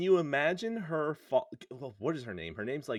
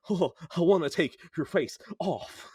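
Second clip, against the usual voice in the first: raised, louder, menacing movie-villain cry; hammed-up threat from a film villain; Nicolas Cage impression; 4 semitones higher, 5 dB louder than usual. Film villain waiting at the bottom of the stairs, hammed-up menace. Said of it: "Nicolas Cage at the bottom like".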